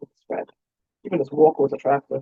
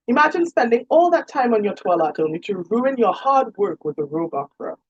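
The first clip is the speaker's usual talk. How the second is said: higher, hammed-up mock lament with a grin; playful mock tragedy; 6 semitones higher than usual. A narrator's reading. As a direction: lament it theatrically while grinning. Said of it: "she lamented with a grin".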